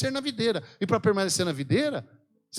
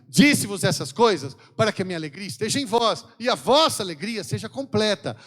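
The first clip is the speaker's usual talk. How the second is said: reading scripture aloud; 4 dB louder than usual. Acted. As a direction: proclaim the verse to the congregation. Pregador lê versículo em voz alta. (leitura solene e alta do versículo)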